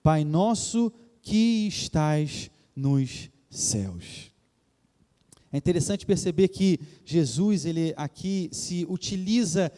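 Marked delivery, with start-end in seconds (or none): 0.0-4.3 slow, measured recitation; slow and reverent, falling to a close; solemn prayer. Acted. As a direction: recite the prayer with long pauses between phrases. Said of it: "vós orareis assim".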